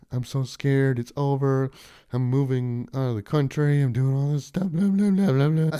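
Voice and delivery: mocking quote. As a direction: parody a scared crybaby. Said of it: "But most of it's just like".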